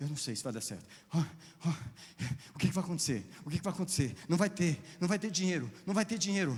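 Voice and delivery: mock spiralling, anxious fretting, pitch climbing. Acting out the worried inner voice of anxiety: acting out an anxious voice. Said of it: "A voz do diabo é a voz da ansiedade".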